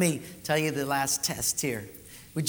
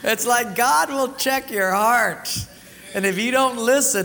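laughing through words; 6 semitones higher, 7 dB louder than usual. Real, not acted. Still laughing.

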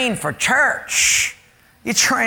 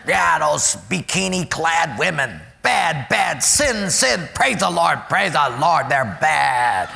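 hammed-up churchy scolding; lightly mocking holy talk; mock pious; 3 semitones lower than usual. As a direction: parody a self-righteous churchgoer. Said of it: "we can even be hard on sin".

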